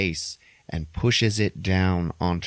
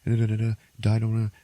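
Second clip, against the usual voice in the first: recited rhyme; 3 semitones higher, faster than usual. Retold or imitated. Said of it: "say the Solomon Grundy poem".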